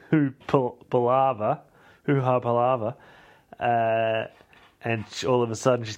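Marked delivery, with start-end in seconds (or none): none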